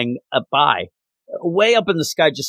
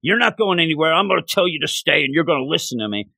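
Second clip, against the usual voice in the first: lightly voiced Kingpin, commanding and fast; a hint of Kingpin laying down the law; faster than usual. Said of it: "that's the Kingpin way".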